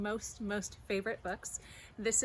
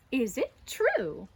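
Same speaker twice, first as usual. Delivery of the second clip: flattering; 3 semitones higher, 6 dB louder, slower than usual. Acted. Flattering again.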